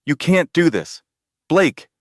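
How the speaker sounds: high, loud scream of his name. A narrator's reading. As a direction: scream after him in despair. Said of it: "Elena screamed".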